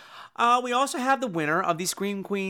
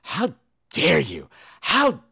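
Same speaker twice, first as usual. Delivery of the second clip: louder, indignant mock tirade; retold angry rant, moderately louder; mock angry patron; 3 dB louder than usual. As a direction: scold like an outraged theatergoer. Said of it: "He's like".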